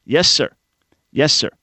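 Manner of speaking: crisp soldier reply. Retold or imitated. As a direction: snap it out like a private. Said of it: "No, no, no".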